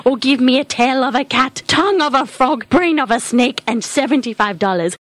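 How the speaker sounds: crone reciting potion ingredients; lightly voiced old witch; fortune teller. Witch Esmeralda voice.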